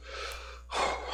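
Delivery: heavy, breathy exhale; winded exhale. Acted. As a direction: let out a tired puff of air. Acting out winded runner.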